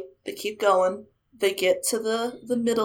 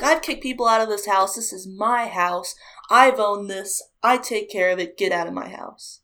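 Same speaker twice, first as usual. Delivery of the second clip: angry ghost; 3 dB louder than usual. Retold or imitated. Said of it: "He's shaking his fists".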